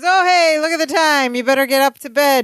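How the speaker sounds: high, put-on airy brush-off; feigned casual. Larry hurries Balky off to bed, feigned casual. Acting out Larry's sudden excuse.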